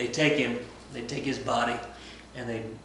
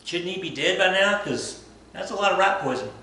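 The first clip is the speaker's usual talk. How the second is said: puzzled nobles; 7 semitones higher, 4 dB louder than usual. Retold or imitated. Nobles puzzled he's alive.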